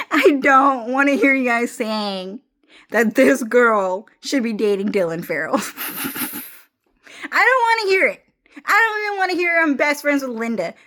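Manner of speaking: high, laughing, half-crying complaint; laughing rant. Real, not acted. Venting about friends, high laughing whine. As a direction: rant through giggles that crack up high.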